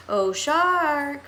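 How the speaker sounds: calling out. Acted. Teen mocking the shark warning, calling out loud. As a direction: call out to the shark to tease it. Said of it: "Monty called through cupped hands".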